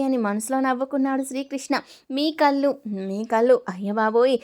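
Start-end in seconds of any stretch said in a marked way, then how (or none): 3.1-4.4 mock-flustered cry in a changed voice; hammed-up dazed exclamation. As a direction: pretend to be swept off your feet. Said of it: "సర్దుకున్నట్లు నటించింది".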